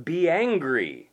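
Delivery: slow, loud, stressed be angry; emphatic command. Acted. Preacher booming the command to his congregation. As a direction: proclaim it like a command.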